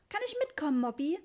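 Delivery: put-on high, eager child's plea; excited. A narrator's reading. Richie asking to come along, excited. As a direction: beg brightly in a high child's voice. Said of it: "fragte Richie aufgeregt".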